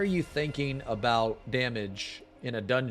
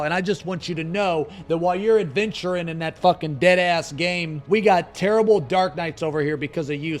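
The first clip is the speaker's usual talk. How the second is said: raised, higher, teasing call-out; calling out Asmongold; 5 semitones higher than usual. Real, not acted. Streamer teasingly calling out Asmongold to come back, raised voice. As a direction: needle a friend across the internet.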